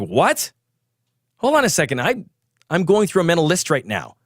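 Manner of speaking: sharp, high indignant retort; snapping. Retold or imitated. Irritated yogi snaps at the shushing instructor. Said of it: "And I snapped".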